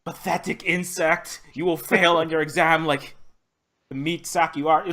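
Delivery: SHODAN voice. Retold or imitated. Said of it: "nightmares involving that voice".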